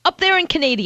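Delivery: Canada said as "ka-NAY-dee-uh"; jokey mispronunciation. Retold or imitated. Guest repeating Anthony's joke name, Canada said "ka-NAY-dee-uh". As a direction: stretch Canada into "Ca-NAY-dia". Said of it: "as Anthony would say".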